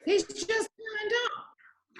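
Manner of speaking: slow hushed whisper; whispered aside. Acted. Cynthia telling Magnus about Simon, slow whisper. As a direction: lean in and whisper it slowly.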